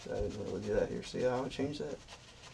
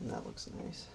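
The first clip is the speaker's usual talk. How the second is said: hushed, breathy whisper of approval; gentle painting instructor; 9 dB quieter than usual. Acted. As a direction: murmur it softly like a calm TV painter. Soft aside while painting.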